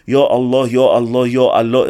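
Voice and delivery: low monotone mock chanting; imitated rote invocation on a low note; mock praying. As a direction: drone it like an idle, repetitive prayer. Mocks sitting home just praying.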